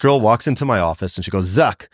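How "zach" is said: roughly imitated Russian accent; bad Russian accent. Singer greeting Zach in her office, bad Russian accent. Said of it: "this is gonna be the worst, uh, Russian accent".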